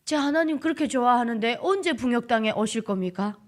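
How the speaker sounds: earnest question in Hamgyong accent; unpolished Hamgyong-accented prayer; Hamgyong dialect. Shown as a demonstration. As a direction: plead with God in a North Korean lilt. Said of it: "그렇게 하는 거죠".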